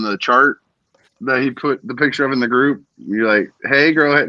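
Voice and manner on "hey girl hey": mildly high imitated girl greeting; man doing a woman's voice. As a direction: lightly echo the white girl voice. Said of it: "That's exactly how I read it".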